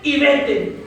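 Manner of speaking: high, slow, ringing command; drawn-out retold divine command; voice of God. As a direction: give each order deliberately, as God speaking. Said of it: "el Señor me volvió a hablar".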